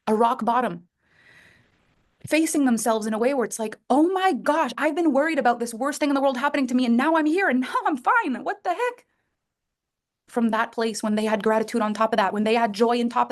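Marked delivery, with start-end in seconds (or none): 3.9-9.1 high, quick, incredulous rising tone; amazed relief. Retold or imitated. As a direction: sound stunned to find yourself fine. Realizing they survived rock bottom.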